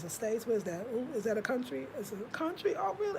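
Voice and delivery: soft, rising questions in mock puzzlement; feigned ignorance. Pretending not to know what the States are, mock puzzled. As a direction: play innocent, as if you never heard of it. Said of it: "I wouldn't even know what it is".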